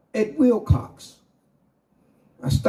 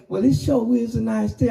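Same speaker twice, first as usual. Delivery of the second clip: high, breezy singer's voice; impression of a singer; 7 semitones higher than usual. A singer chats through the limo window, high and breezy. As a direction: lift it up high and airy. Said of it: "He say".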